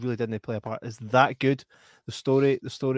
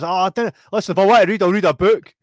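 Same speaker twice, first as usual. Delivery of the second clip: wife dismissing; 7 semitones higher, 10 dB louder than usual. Retold or imitated. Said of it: "I'm like".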